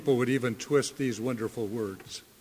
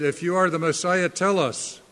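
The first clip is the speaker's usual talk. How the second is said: higher-pitched, insistent demand; pressing demand; 4 semitones higher than usual. Acted. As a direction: press him for an answer, pitch raised. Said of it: "and they pressed him".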